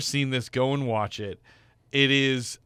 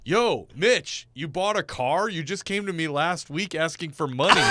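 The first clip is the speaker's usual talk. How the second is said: mocking neighbor; 5 semitones higher than usual. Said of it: "and he's like".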